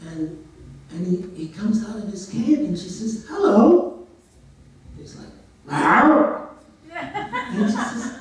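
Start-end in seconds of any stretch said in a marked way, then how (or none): 3.3-3.9 high, loud sing-out greeting; put-on high maiden voice; maiden's greeting. 5.7-6.5 loud wordless bear noise, rising; imitated bear growl; bear's roar. Voiceless bear answers the maiden.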